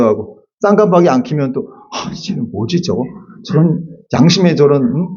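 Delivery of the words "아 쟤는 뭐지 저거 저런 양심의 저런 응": grumbling to oneself. Retold or imitated. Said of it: "막 이렇게 생각이 되기도 하고".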